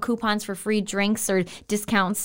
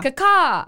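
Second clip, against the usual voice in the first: bird call caw-caw; 6 semitones higher than usual. Shown as a demonstration. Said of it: "what's my signature caw-caw".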